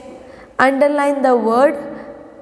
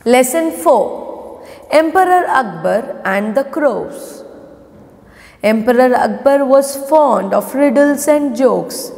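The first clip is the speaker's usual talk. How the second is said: story read-aloud. Acted. Teacher reading the lesson for pupils to follow, measured read-aloud. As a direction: read it out word by word for children.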